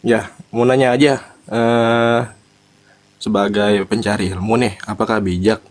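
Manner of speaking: speaking up clearly so the listener catches it; to someone hard of hearing. Real, not acted. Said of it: "Kedengeran ya?".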